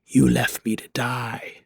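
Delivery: slow, drawn-out undead voice; slow walking-corpse voice; accusing corpse. Acted. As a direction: accuse them slowly as the risen dead. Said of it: "he looks at Bakai and says".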